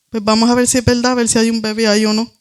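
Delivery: sarcastic doctor. Retold or imitated. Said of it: "carcajada diabólica, sarcástica".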